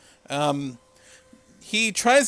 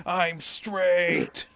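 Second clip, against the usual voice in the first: insistent declaration. Retold or imitated. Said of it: "will reemphasize that he is straight".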